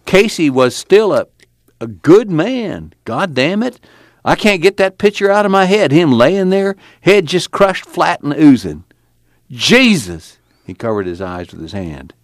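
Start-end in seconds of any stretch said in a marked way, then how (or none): 0.1-10.4 high-pitched, distraught outburst; acted anguish at a haunting memory. A narrator's reading. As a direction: pour out the horror, pitched high. Tom haunted by Casey's death.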